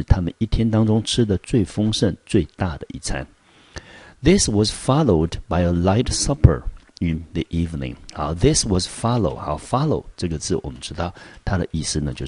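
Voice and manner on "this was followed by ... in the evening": clear, measured textbook reading; reading the text aloud. Shown as a demonstration. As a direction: read the passage out for the class. Reads the English text aloud. (朗读课文)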